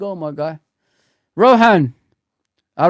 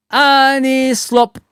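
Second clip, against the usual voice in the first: slow mock name; 7 semitones higher, 4 dB louder, much slower than usual. Mocking name, drawn out.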